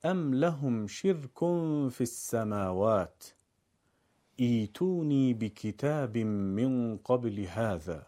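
slow, careful Arabic recitation; measured verse reading. Shown as a demonstration. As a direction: read the verse out phrase by phrase. Teacher reads out the verse example.

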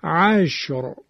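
عشر with a thick, full final ر; heavy R. Shown as a demonstration. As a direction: pronounce عشر with emphatic stopped ر. (عشر با رای ساکن و درشت)

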